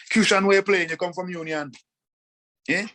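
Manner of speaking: mocking questioner. Mocking how others question him.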